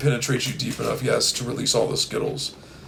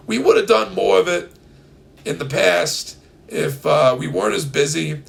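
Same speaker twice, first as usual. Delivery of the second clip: put-on New York accent; 3 semitones higher than usual. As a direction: talk like a New Yorker. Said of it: "slip into my New York accent".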